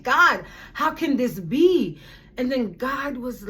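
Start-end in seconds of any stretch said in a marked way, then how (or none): 0.0-2.0 slow, mildly exasperated plea; retold anger. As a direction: question God with a touch of anger. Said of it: "I was so angry".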